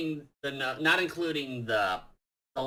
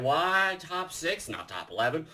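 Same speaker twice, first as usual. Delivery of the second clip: Nostalgia Critic; 6 dB quieter than usual. Retold or imitated. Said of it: "Nostalgia Critic is saying".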